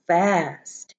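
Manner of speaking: slow, menacing witchy teacher hiss; a slow stern hiss from the new teacher; unpleasant hiss. Acted. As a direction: drag it out to freeze the class. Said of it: "hissed an unpleasant voice".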